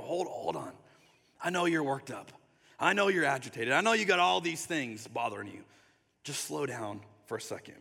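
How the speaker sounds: gentle, understanding reassurance, softening at the end; tender. Acted. Jesus calming an agitated follower, tender. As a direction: mildly soothe someone who is worked up. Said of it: "Just speaking tenderly".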